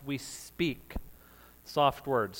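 gently hushed, easing down at the end; soft-spoken. Shown as a demonstration. Preacher urging soft words on the congregation, soft-spoken. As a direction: drop to a soft, low voice.

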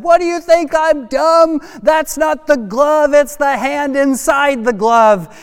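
put-on high, loud heckling kid, words drawn out; indignant kid. Kid in front row calls out the trick, loud indignation. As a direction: protest like a child who won't be fooled. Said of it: "a kid in the front row".

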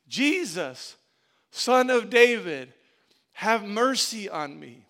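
loud, drawn-out cry for mercy; retold shout. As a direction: imitate a beggar calling out over a crowd. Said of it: "He begins shouting".

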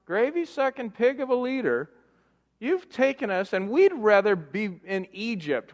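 hammed-up scheldend, een stuk hoger; boze Israëlieten. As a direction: overdreven nagespeelde woedende klacht tegen de leider. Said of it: "They're going".

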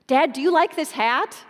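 a small daughter begging her dad; eager little girl. Retold or imitated. Little daughter voiced in story.

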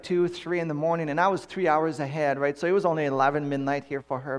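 ordinary talk

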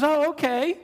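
imitated meek woman. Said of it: "She goes".

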